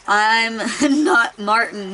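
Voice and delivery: slow mock shout cracking into a laugh; can't keep a straight face reading the shout; laughing mid-shout. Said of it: "he shouted".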